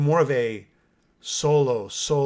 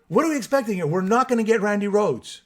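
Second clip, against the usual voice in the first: higher and louder, hammering the question; emphatic repeat; 7 semitones higher, 5 dB louder than usual. Real, not acted. Podcaster repeating his point to commenters, loud and higher. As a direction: say it again, leaning in hard. Defending the new song.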